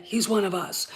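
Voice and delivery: conspiratorial whisper of "one". Real, not acted. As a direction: whisper it like a secret. Repeats it as whisper.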